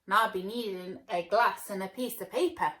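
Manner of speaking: loud confident hero; calm plan. Acted. Hero speaks.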